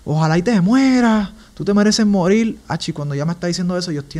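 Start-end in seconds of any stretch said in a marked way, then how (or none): 0.0-2.6 higher-pitched mock angry rant; imitando furia. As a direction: mimic a furious ex laying into him. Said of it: "ya ella está furiosa". (imitando a su ex furiosa)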